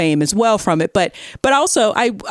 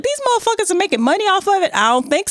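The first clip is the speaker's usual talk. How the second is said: mimicking Southern accent; 13 semitones higher, faster than usual. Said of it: "strong Southern accent".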